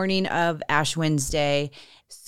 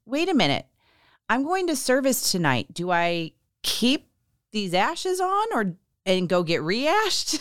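sudden realization; 5 semitones higher than usual. Retold or imitated. Asking coworkers about keeping ashes for service, suddenly realizing. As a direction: stop mid-thought as it dawns on you.

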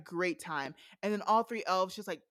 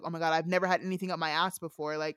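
nervous; faster than usual. Retold or imitated. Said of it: "she's, like, nervous".

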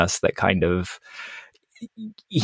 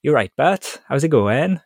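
higher-pitched cartoon Welsh-ish voice; Welshie from Futurama; 7 semitones higher, slower than usual. Asked to do his one accent, plays a high Futurama voice. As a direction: pop the pitch up into the Futurama character. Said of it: "is Welshie from Futurama".

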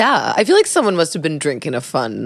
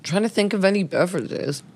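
mouth full; 3 semitones higher, 5 dB quieter than usual. Real, not acted. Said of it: "I have that caramel in my mouth".

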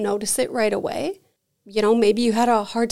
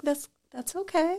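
soft, higher-pitched reassuring tone; gentle reassurance; 7 semitones higher, 5 dB quieter than usual. Retold or imitated. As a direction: gently let them know it's fine. Reassuring people who felt nothing.

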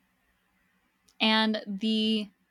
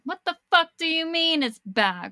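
high, loud acted incredulous outburst; stunned disbelief; 7 semitones higher, 5 dB louder than usual. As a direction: retell it as a loud, freaked-out demand. Acted stunned reaction to friend.

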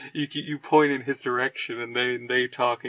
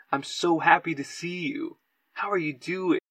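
acted fond delight, pitched up; warm, happy greeting; 4 semitones higher than usual. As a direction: greet a dear friend with open affection. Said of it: "like, the warmest".

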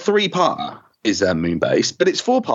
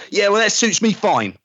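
sulky Ben; 4 semitones higher than usual. Shown as a demonstration. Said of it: "And I go".

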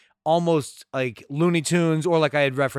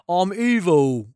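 imitating Baby Huey; slower than usual. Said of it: "Baby Huey's like".

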